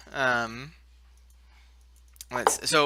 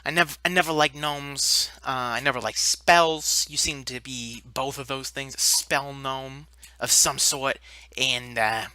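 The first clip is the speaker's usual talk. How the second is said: lower, menacing giant voice; low threat to gobble them up; Molten Giant voice; 4 semitones lower than usual. Acted. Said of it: "the Molten Giant says".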